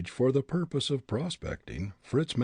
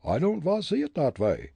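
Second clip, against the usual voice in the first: put-on higher, firm Dutch-accented voice; Dutch accent retort; 7 semitones higher, 4 dB louder than usual. Fritz refusing the bully, defiant Dutch accent. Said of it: "Fritz said".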